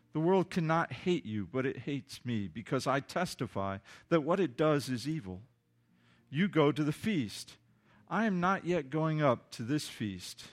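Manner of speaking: measured, solemn Bible reading; scripture reading. Acted. Pastor reads the chapter aloud to the church, measured and solemn. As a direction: read the passage to the congregation with weight.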